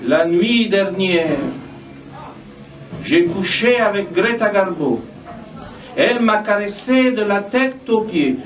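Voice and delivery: measured lines with falling cadences; spoken poetry reading; poem recitation. Acted. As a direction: recite it as verse, pausing between lines. Reads own poem aloud.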